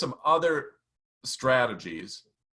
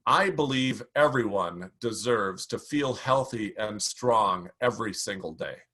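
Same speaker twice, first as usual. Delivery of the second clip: sample belief statement; 3 semitones lower than usual. Shown as a demonstration. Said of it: "come out of your opening story and say".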